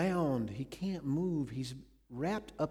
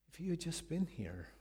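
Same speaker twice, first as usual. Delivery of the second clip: anguished plea; 5 semitones higher than usual. Retold or imitated. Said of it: "Can you feel the pathos of this?".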